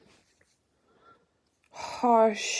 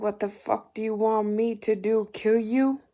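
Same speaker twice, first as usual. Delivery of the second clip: imitating an angry scream, quick and louder; mock scream; 2 semitones higher, 5 dB louder, faster than usual. Narrator retelling the god screaming at her, half-loud. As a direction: rattle it off like he yelled it. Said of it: "screaming at me".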